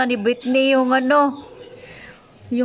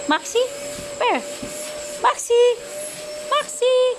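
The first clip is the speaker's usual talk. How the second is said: calling out; 12 semitones higher than usual. Real, not acted. Calling the dog.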